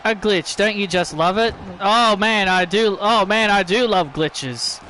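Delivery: dry mock enthusiasm; sarcastic. Real, not acted. Commentator hit by a game glitch, sarcastic. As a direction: feign delight at the glitch. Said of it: "And I'm being sarcastic".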